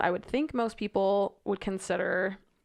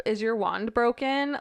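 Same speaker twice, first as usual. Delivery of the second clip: reading the letter; 2 semitones higher than usual. Retold or imitated. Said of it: "I was like".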